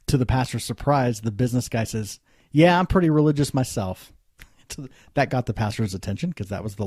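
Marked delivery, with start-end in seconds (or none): 2.5-4.1 tags 1. Retold or imitated. Drunk businessman voiced in story.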